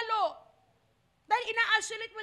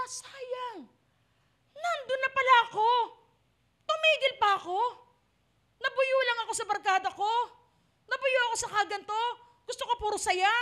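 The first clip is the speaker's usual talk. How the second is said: regretful lament; 3 semitones higher, 4 dB louder than usual. Acted. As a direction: cry out your regret. Regretful damned Christian lamenting.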